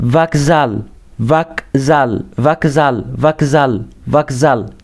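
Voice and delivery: فاكزال said as vakzal; repeat after me. Shown as a demonstration. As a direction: say فاكزال with a v and stress on the second syllable. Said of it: "بعد كده عندي".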